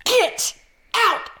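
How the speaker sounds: hammed-up angry mom yelling. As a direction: imitate mom ordering her out. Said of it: "she's like".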